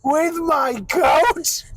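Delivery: drawn-out goat bleat voice; slow goat voice attempt. Shown as a demonstration. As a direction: stretch it like a goat. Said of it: "I can do better than that".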